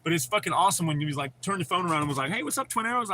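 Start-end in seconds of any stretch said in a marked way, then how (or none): 2.3-3.1 lightly imitated Scottish accent, a little higher; a quick mock Scottish greeting; a hint of Scottish accent, raised pitch. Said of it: "a heavy Scottish accent like yours".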